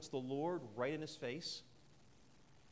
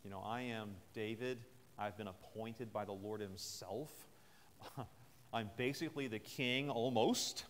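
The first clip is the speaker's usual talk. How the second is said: condescending; 3 semitones lower than usual. Retold or imitated. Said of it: "He could have said".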